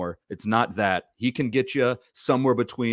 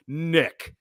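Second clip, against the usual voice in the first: higher, slow mock scolding; 5 semitones higher, much slower than usual. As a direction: scold him in drawn-out, separated words. Mock-scolding absent Nick over a bad take.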